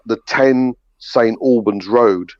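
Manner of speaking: slow, careful English accent; English-accent lesson, each word separated; proper English accent. Shown as a demonstration. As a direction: spell it out slowly in proper English. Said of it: "in a proper English accent".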